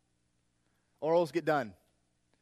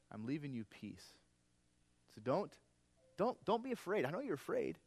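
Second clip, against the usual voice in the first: reassuring Jesus; 3 semitones higher, 4 dB louder than usual. Acted. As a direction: hush them kindly, don't be afraid. Pastor voices Jesus comforting disciples.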